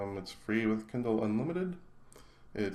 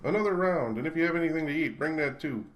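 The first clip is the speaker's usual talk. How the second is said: yelling; 6 semitones higher than usual. A narrator's reading. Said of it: "she yelled across the room".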